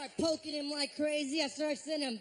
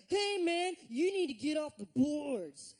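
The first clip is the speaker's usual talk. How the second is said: mock irritated demand, raised pitch; higher, mildly angry telling-off; angry message; 3 semitones higher, 3 dB louder than usual. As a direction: imitate an annoyed friend's warning. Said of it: "angry I ams from Harris".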